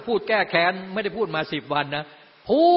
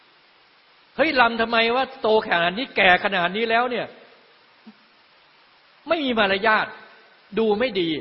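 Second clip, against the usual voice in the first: louder, slower mock scolding of a dancer; a preacher voicing a disapproving crowd, louder and slower; scolding onlooker; 3 semitones higher, 3 dB louder, slower than usual. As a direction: play a busybody chiding an old dancer.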